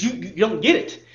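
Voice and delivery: husband venting to the counselor, mildly heated; mock furious husband. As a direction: play the fed-up husband, half-hearted anger. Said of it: "the husband's furious at this point".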